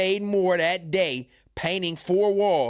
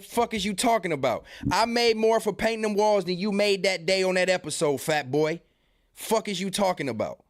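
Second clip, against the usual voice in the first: heated comeback; 4 semitones higher than usual. Real, not acted. Streamer snaps back at the podcaster, heated and raised. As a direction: fire back at him, pitch up.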